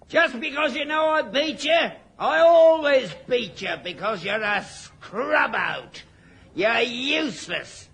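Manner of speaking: shouted, high-pitched jeering; angry taunting. Acted. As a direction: yell the insults up high.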